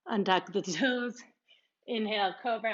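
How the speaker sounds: breathless, panting yoga cue; out of breath. Real, not acted. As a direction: talk while winded from the flow. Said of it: "I'm out of breath".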